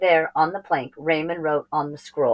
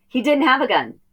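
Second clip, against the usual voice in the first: dismayed realization; 9 semitones higher, 4 dB louder than usual. A narrator's reading. Sudden dismay.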